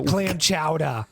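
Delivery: very slow Boston accent demo. Shown as a demonstration. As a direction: stretch it out Boston style. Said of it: "Can I get some help like Lewis did?".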